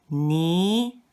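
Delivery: drawn-out "ni" with a rising tone; second tone. Shown as a demonstration. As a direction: slide "ni" upward like a question. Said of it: "Let's do them all together again".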